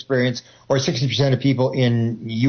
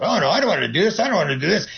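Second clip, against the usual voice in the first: higher, mock-whiny complaint; whining left brain; 5 semitones higher, faster than usual. Left brain refusing to keep counting breaths, mock whine. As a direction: whine like a bored kid refusing. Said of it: "And it goes".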